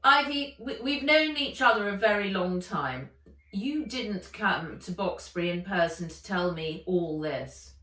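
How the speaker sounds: a cool headmaster probing for the truth; lightly voiced old headmaster, guarded; Limpet, wary headmaster. Limpet confronting Ivy.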